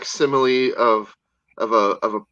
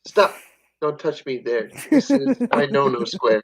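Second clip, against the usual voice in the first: laughing. Acted. Repeating joke line laughing.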